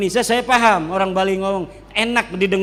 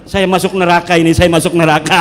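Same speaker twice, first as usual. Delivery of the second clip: mock panicked Wahabi; 3 semitones lower, 6 dB louder, faster than usual. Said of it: "dia ngegeter-geter".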